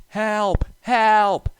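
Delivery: high, loud, desperate cries for help; panicked shout. A narrator's reading. Runaway engine pushed downhill, screaming in panic. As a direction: scream it as you lose control.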